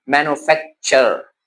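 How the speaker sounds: मैन्युफैक्चर broken before a final "char"; "char" ending. Shown as a demonstration. Teacher gives another T-U-R example, "char" ending. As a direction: end मैन्युफैक्चर on a separate char. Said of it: "sound देता है चर की".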